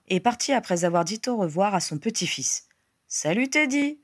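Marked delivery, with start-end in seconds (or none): 3.1-4.0 put-on lifted, higher-pitched hello to a child; cheerful greeting. A narrator's reading. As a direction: greet the little one with a rising lilt. Godfather greets the child brightly. (salutation enjouée)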